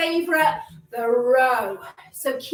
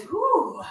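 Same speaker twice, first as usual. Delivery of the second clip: puffing out a breath; out of breath exhale; breathless whew; 2 semitones higher than usual. Real, not acted. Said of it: "the breath's coming a little bit too fast".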